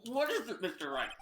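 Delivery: talking through popcorn; munching popcorn. Real, not acted. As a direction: mouth full of popcorn. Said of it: "Sorry, I'm eating popcorn".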